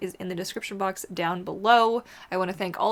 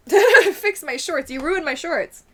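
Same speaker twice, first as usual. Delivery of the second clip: higher, louder, slow whiny complaint; mock dog voice; 9 semitones higher, 11 dB louder, slower than usual. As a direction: whine as the dog about the shorts. Voicing the dog, laughing.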